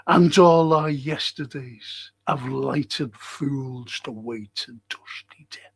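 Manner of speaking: drawn out and grave, fading at the end; slow recitation. Acted. Reciting the yesterdays line slowly to students. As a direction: let each word hang.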